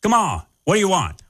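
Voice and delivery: impatient attendant. Acted. Impatient drive-through worker bit.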